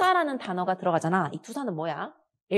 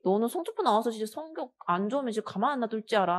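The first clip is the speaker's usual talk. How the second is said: scolding mother; 3 semitones higher than usual. Acted.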